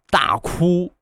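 drawn-out reading of 大哭; spelling out a tattoo slowly. Shown as a demonstration. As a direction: read 大哭 slowly, syllable by syllable. Reads tattoo characters aloud.

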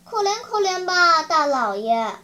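acted plaintive plea; pleading. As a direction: beg a great lord for mercy. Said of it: "开始哀求他说".

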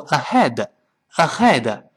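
"ahead" with the h scraped as a throaty Chinese 呵; mock learner error, back-of-tongue friction on the h of "ahead"; wrong rasped H. Shown as a demonstration. Teacher warns students off this, "ahead" with throaty h. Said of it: "好多人把这个H读成呵".

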